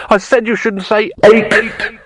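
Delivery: slow, loud, high-pitched scream; shrieking in a strained voice. A narrator's reading. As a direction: yell each word out slowly in panic. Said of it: "screamed Rincewind".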